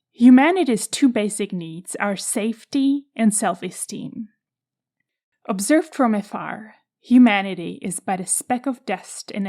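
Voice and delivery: measured book-passage reading, key words emphasised; reading aloud. Real, not acted. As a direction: read the passage out with deliberate emphasis.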